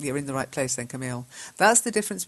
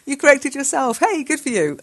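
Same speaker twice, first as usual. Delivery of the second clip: louder, higher, delighted praise; 9 semitones higher, 8 dB louder than usual. Real, not acted. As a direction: cheer the student on. Praises student's self-correction.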